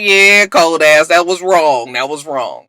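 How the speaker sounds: slow, emphatic reproach; disapproving. Real, not acted. Vlogger disapproving of Bonnie, slow and emphatic. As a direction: shake your head at her. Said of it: "I was like".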